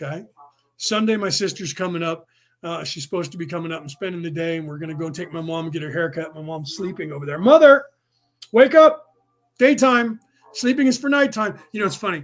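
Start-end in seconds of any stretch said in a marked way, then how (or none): 7.4-11.6 high, very loud raised yell. Calling across the room to wake a sleeping mother: yelling. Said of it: "I apologize for yelling into the mic".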